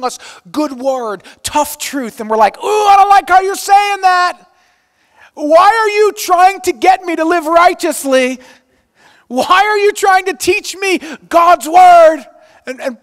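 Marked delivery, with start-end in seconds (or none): 2.6-12.2 mock whining at the pastor, high and loud; whiny complaining. Churchgoers whining at their pastor, loud mock whine.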